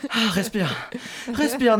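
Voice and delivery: hyperventilating, laughing fake panic; mock panic attack. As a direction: play a hammed-up panic attack. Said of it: "je fais une crise d'angoisse".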